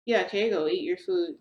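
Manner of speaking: loud, nervous push to eat; awkward loud urging. Retold or imitated. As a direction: blurt it out to change the subject. Awkward pushing boyfriend to eat.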